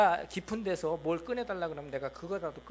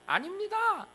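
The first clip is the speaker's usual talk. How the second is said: sharply high, haughty no; the proud king brushing God off; arrogant refusal; 6 semitones higher than usual. Retold or imitated. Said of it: "교만해가지고요". (교만하게 거절하는 왕)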